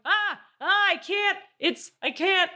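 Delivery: high-pitched imitation of a panicking driver; mock panic. Driver losing control on icy hill, mock panic. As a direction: yelp helplessly as the car slides, hammed-up. Retold driver sliding backwards downhill.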